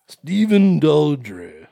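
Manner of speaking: slow mock-posh "Stephen Daldry"; posh mock British. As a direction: say it grandly, slowly. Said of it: "It's a very stuffy name".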